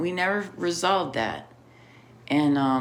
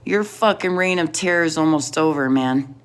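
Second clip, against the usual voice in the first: angry callout; 2 semitones higher, 6 dB louder than usual. Acted. Calling out an enemy directly.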